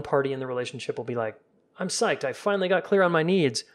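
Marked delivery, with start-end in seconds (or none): 1.8-3.6 higher, bright burst of eager news; excited partner. Retold or imitated. Partner who finally got clear on needs, excited. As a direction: sound pumped about a breakthrough. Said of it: "not so much with excitement energy".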